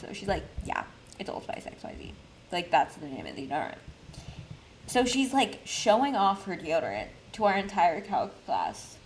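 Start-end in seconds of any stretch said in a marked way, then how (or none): 0.6-3.8 breathy near-whisper imitation of a classmate; imitating how friend talks. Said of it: "that's how she talks".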